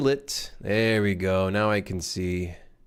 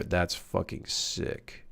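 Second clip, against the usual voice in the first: whispering; 5 semitones lower, 7 dB quieter, much slower than usual. Real, not acted. Impressed by automatic fix.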